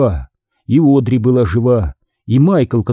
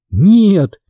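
high-pitched anguished cry, somewhat restrained; 8 semitones higher, 4 dB louder than usual. A narrator's reading. Girl watching Tom's way back burn, crying out. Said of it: "закричала она".

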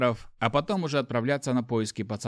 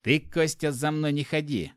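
gritted teeth; through gritted teeth; 3 semitones higher than usual. Acted. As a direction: spit it out through clenched teeth. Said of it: "процедил сквозь зубы".

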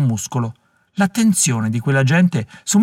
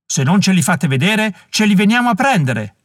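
mock shout; 6 semitones higher than usual. A narrator's reading. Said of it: "gridava il più esaltato".

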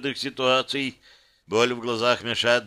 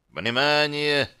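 higher, stretched-out system call; booming announcement; 4 semitones higher, slower than usual. A narrator's reading. System alerts gladiators in their heads, announcing. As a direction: draw it out like an announcer. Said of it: "прогремело в голове оповещение".

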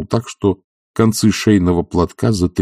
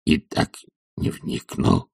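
much lower, soft, slow humble reply; meek; 10 semitones lower, 5 dB quieter, slower than usual. Acted. Zakhar humbly agreeing with his master. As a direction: answer humbly, giving in. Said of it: "смиренно отвечал Захар".

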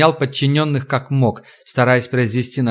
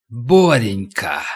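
slow, creeping insinuating call; 2 semitones lower, much slower than usual. Acted. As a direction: coax him in, slow and menacing. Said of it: "Вкрадчивый голос хозяина".

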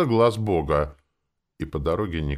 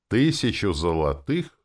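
higher, slow incredulous question; astonished exclamation; 5 semitones higher, 4 dB louder than usual. A narrator's reading. Mercenary hears the price of the drink, astonished. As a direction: draw out the sum in disbelief. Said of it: "воскликнул Дупре".

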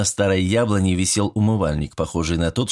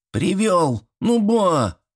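put-on high plaintive child's whine; whiny boy; 10 semitones higher, much slower than usual. Boy whines to granny for a pie, plaintive. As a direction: beg granny like a little kid. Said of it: "жалобный голос внука".

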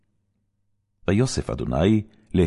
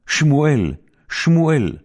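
high, loud calling of the name; divine call; 10 semitones higher, 5 dB louder than usual. Acted. God calling the boy Samuel, high and loud. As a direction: call out across the dark temple.

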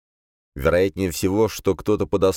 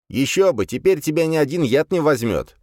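higher, louder smug demon; smug fire demon; 10 semitones higher, 3 dB louder than usual. A narrator's reading. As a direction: voice Legion with a snort. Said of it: "хмыкнул Легион".

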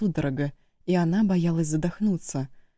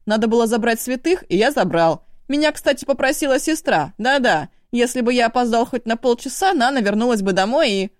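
much higher and louder, fast; frightened younger brother justifying himself at a yell; high shrill pleading; 6 semitones higher, 5 dB louder than usual. A narrator's reading. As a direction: shriek the excuses at speed. Eshu shrieking back from the tree.

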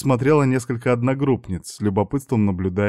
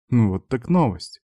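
plain reading voice

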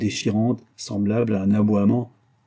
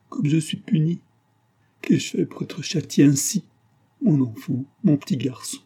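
anguished cry; 6 semitones higher than usual. A narrator's reading. Punished mother over her sick child, crying out. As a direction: wail it lightly in a raised pitch. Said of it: "crie Marianne, en se tordant les mains".

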